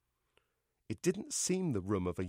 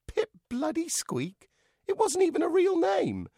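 much higher, indignant voice; outraged; 5 dB louder than usual. A narrator's reading. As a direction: splutter with outrage. Outraged puppet.

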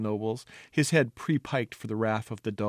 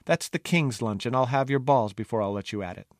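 cook's threat. Acted. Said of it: "said Bubble, the head cook".

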